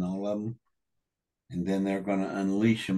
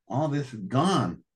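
heated retold outburst; 5 semitones higher than usual. Retelling his angry outburst.

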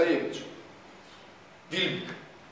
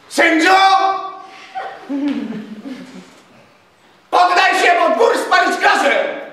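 shouted threat; 7 semitones higher than usual. A narrator's reading. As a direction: yell the ultimatum at the manor door.

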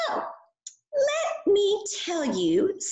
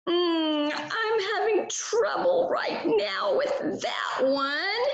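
high puppet voice, a touch sheepish; the puppet pupil confessing a little problem; lightly whining child puppet; whiny puppet; 5 semitones higher than usual. Acted. Puppet Burley admits a struggle.

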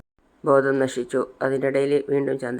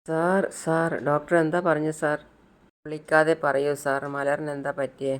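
tearful plea. Acted. Mother begs Sidhu for news of her daughter, tearful. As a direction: beg for news through mild tears. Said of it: "ചന്ദ്രികയും നല്ലോണം കരയാണ്".

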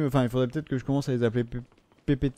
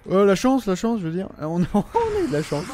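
excited; 7 semitones higher than usual. Real, not acted. Gamer cheering his good luck, excited and high. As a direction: celebrate the lucky break. Lucky drop in game.

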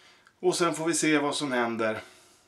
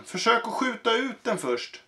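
higher, eager advice; helpful smith; 8 semitones higher than usual. Acted. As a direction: urge him to try firing.

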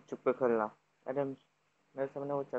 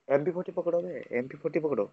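raised, high-pitched insistent callout; urgent urging; 5 semitones higher, faster than usual. Real, not acted. Gamer urging teammate to grab a gun, urgent. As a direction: press a teammate to act, pitched up.

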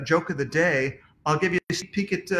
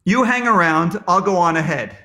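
punchline; 6 dB louder than usual. Shown as a demonstration. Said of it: "The answer is".

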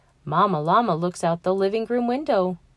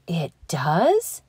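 shocked gasp. Acted. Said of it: "gasps Llama Llama, shocked".

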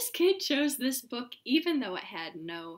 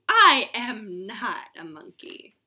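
mock protest; 2 semitones lower, 10 dB louder than usual.

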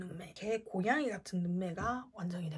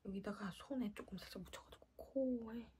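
whisper; 15 dB quieter than usual. Real, not acted. Whispered aside.

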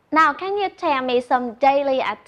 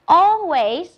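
"Always" with the first syllable AL hit higher and louder; stress first syllable; 4 semitones higher, 4 dB louder than usual. Shown as a demonstration. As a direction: lean hard on AL in "Always", let the rest fall away. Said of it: "trọng âm đều rơi vào âm tiết thứ nhất". (nhấn mạnh âm đầu "Always", cao và to hơn)

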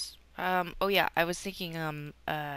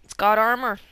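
much louder, thrilled; excited; 3 semitones higher, 14 dB louder, faster than usual. Real, not acted. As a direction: announce the loot happily. Excited announcement.

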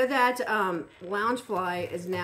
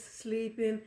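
ordinary talk, nothing marked

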